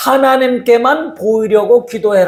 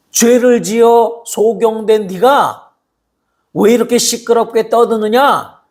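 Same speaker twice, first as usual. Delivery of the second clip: scolding crowd. Retold or imitated. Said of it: "사람들이 꾸짖어서".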